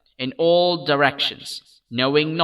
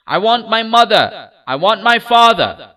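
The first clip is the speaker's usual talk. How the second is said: high, loud sobbing shout; 8 semitones higher, 7 dB louder than usual. A narrator's reading. Child shouts for his parents, refusing the ride, sobbing. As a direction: shout it through shrill sobs. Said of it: "he only shouted".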